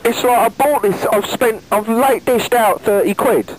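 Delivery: high-pitched, aggrieved griping; exasperated complaint. Real, not acted. Caller complains about money spent.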